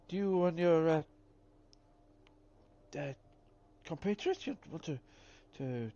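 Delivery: put-on crackly grateful old-timer; old prospector. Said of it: "an old prospector, uh, voice".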